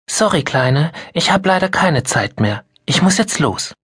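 already halfway out the door; hurried mother. Acted. Mother leaving Mia in a hurry.

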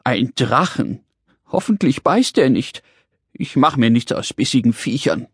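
understated whimper of a little man; a touch of fretful whining; whining worry. Acted. Little man fears the dragon bites, mild whining. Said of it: "der kleine rosa Mann jammerte".

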